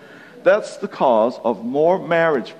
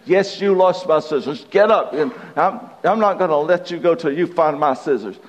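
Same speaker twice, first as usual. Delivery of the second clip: raised, insistent mock nagging; higher-pitched imitation of a wife's scolding; 4 semitones higher than usual. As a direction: keep badgering as the acted wife. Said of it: "she went on and on".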